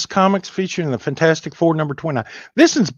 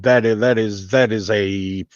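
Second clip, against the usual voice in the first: mock Spanish flourish; 2 semitones lower, 5 dB louder, slower than usual. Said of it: "as the people across the southern border would say".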